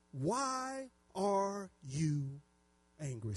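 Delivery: measured, solemn Bible reading; preacher reading scripture to a congregation. Acted. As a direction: read the verse out deliberately, key words drawn out. Reads scripture aloud to congregation.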